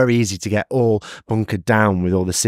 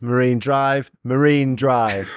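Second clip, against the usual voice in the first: put-on Indian accent; 2 semitones higher than usual. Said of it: "You put on a".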